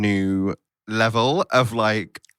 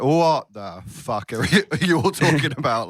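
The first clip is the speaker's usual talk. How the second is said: baffled disbelief; 4 semitones higher than usual. Retold or imitated. Retold baffled reaction to others.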